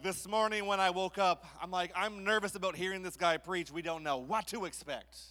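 loud, hammed-up worried churchgoer; mock nervous listener. Congregant imagining the new preacher, mock nervous and loud.

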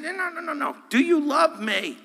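high, pleading mock voice of Jesus; lightly voiced Jesus asking again; Jesus pressing Peter. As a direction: push the question up high, insistent.

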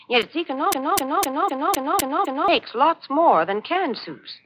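bright announcer ad read; chipper 1950s ad. Acted. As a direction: sell the soup cheerfully. Radio sponsor ad read.

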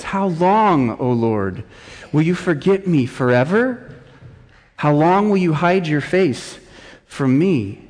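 rising, insistent plea to God; mildly anguished questioning; pleading lament. Acted. Preacher voices David's lament psalm.

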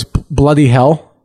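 slow, deadpan American-accented British oath. Shown as a demonstration. Playing the guy with no sense of irony, American accent. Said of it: "in an American accent goes".

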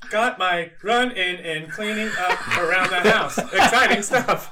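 lightly voiced woman, laughing; man doing a woman's voice. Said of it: "Nino to read the girl voice".

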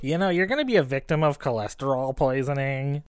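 put-on know-it-all schoolboy; lightly imitated pompous little boy; mock prissy kid. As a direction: lecture him like a snooty child. Retold kid lecturing father.

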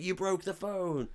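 high, drawn-out mock accusing whine; mock accusation. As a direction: stretch it out high as you impersonate an accuser. Acted quote of accusing motel guy.

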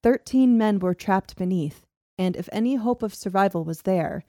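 measured documentary-style reading; story narration. A narrator's reading. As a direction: read the old account aloud, evenly paced. Narrates the tunnel disaster.

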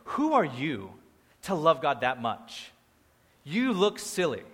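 snobby disapproval, lightly acted; mock judgmental. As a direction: look down on someone overdoing it.

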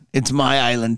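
movie quote; Braveheart line. Retold or imitated. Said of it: "I heard the one in, uh, Braveheart".

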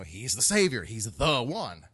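"the" in "the one" loud and drawn out; slow, weighty THE before "one"; stress on THE. Shown as a demonstration. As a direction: punch THE, as in the only one. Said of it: "put the article there, the".

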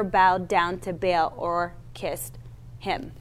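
lightly voiced steady Bible reading; scripture reading. Preacher reads scripture to his church, steady reading voice. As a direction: read the passage to the congregation, measured. Reads the Elijah passage aloud.

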